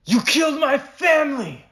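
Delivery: high, loud anguished scream; cowboy screams at his family's killer. Acted. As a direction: shriek the accusation at the killer. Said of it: "I screamed".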